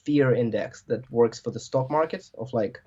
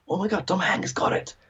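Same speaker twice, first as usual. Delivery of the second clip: high-pitched mock gasp of alarm; mock shock; 8 semitones higher than usual. Podcaster mimicking the public's panic over a celebrity, mock shock. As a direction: imitate a stunned public hearing big news.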